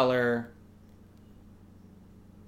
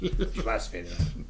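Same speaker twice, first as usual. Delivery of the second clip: lightly voiced sneering villain; mustache twirling villain; 2 semitones lower than usual. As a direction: menace the tenant, twirling an imagined mustache. Acts out old melodrama.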